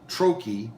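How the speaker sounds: trochee with the TRO hit hard, chee falling away; stress on first syllable. Shown as a demonstration. Teacher showing where the stress falls in trochee. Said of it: "it helps sound like the stress".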